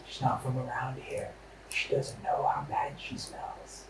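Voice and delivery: very soft, half-whispered aside; confidential hush. Acted. Adventurer leaning in close to the goblin, hushed. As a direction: lean in and keep it secret. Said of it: "I lean in really close".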